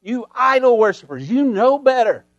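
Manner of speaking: stinging accusation. Retold or imitated. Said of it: "with these stinging accusations".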